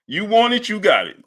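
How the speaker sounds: you want it high, got it dropping. Retold or imitated. Streamer quotes the fighter's catchphrase, mock hype.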